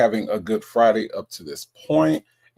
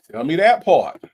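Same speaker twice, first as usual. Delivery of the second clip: hyped; 4 semitones higher, 6 dB louder than usual. Real, not acted. Hyping a chatter's flames.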